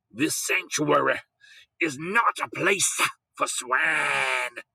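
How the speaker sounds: slow preacher's voice trembling as he shouts. A narrator's reading. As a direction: let the voice shake with outrage. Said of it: "spoke with a trembling voice".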